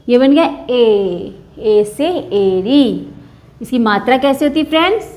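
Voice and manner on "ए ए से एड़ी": slow sounding out. Shown as a demonstration. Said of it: "teacher sounds out letter".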